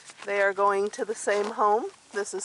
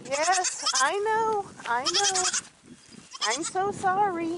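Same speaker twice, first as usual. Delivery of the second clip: sing-song sorry to the goats; 10 semitones higher than usual. Real, not acted. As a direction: comfort them like crying babies. Soothing crying baby goats.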